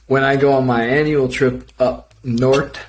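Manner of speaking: put-on thick Minnesota accent, laid on heavy. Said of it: "nobody can understand what you're saying".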